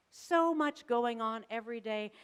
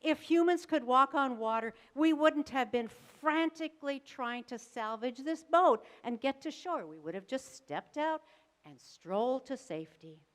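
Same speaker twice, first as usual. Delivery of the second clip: incredulous boatmates; 3 semitones higher, 4 dB louder than usual. Acted. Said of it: "imagine the rest of the people".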